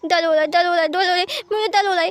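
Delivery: put-on crying child. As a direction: cry it out like a hurt child with his ear pulled. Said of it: "ये सुनकर". (रोता हुआ छोटा बच्चा, ऊँची आवाज़ में)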